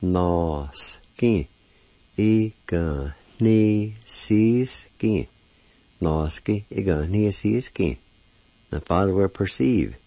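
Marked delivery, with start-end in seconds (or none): 0.0-5.3 "nos ki ignisis ki" said in two even halves; Cherokee word. Shown as a demonstration. Teacher putting the word together for students, clearly. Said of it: "And together". 6.0-8.0 "Nos ki, ignisis ki" said a bit slower, falling at the end; Cherokee word. Shown as a demonstration. Teacher repeating the whole word more smoothly. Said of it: "And together".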